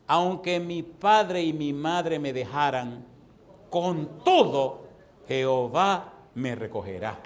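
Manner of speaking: slow, weighty reading of the verse; solemn scripture reading. Acted. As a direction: read it slowly, leaning on each phrase. Reads scripture slowly. (lectura lenta y solemne del versículo)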